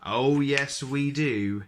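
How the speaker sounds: loud, high burst of an idea; eager realisation. Acted. Mister Silly hitting on a toboggan plan, eager. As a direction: announce the bright idea.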